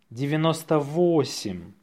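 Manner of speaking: natural-speed dictation. Shown as a demonstration. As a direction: say it briskly, in one go.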